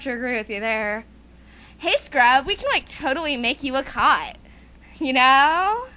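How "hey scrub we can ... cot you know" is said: lightly put-on Valley Girl; a hint of Valley Girl lilt; Valley Girl accent. Teasing Scrub about a makeover, mild Valley Girl accent. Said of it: "why do you have that Valley Girl accent".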